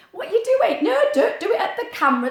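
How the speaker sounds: real giggly protest; laughing. Real, not acted. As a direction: laugh while telling him off. Laughing at child.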